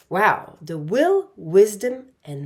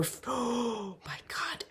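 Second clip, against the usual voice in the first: gasp of surprise; 4 semitones higher, 11 dB quieter than usual. Real, not acted. Sudden realization during card reading.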